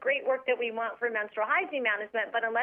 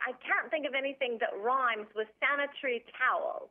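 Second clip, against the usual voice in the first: lightly imitated British accent. British book-club nurse stuck for a rhyme, imitated British accent. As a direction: put on a hint of a British voice. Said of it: "in her British voice".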